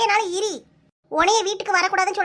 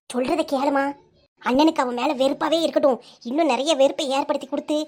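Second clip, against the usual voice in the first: lower, conspiring voice of a scheming sister; 4 semitones lower than usual. Acted. Sister coaxing her mother to split the couple, low and scheming. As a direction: talk her mother into the plot, low and sly.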